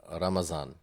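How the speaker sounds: 'Ramazan' with a Z in place of the Arabic d; Urdu Ramazan. Shown as a demonstration. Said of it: "instead of Ramadan, they would say".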